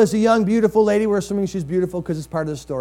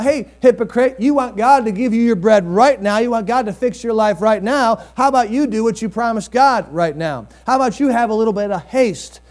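self-rebuke; 3 semitones higher than usual. Pretend. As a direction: scold yourself in the mirror. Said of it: "look in the mirror and say".

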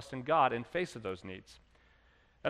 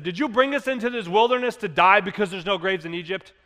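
sarcastic; 2 semitones higher, 5 dB louder than usual. Retold or imitated. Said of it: "You can almost sense the sarcasm".

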